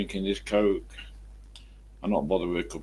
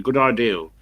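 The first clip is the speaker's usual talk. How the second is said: louder Somerset "ideal"; Somerset accent; 3 semitones higher, 5 dB louder than usual. Retold or imitated. Boss sticking to his word, Somerset accent. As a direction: insist on "ideal" with an L, Somerset style. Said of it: "the Somerset people say that".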